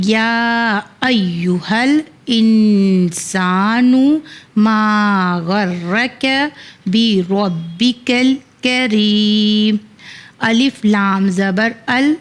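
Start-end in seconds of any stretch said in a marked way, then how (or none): 0.1-9.8 slow, chanted verse recitation; slow Quranic chant. Shown as a demonstration. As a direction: recite the whole verse slowly and melodically. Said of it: "کوشش کریں گے کہ ایک ساتھ پڑھنے".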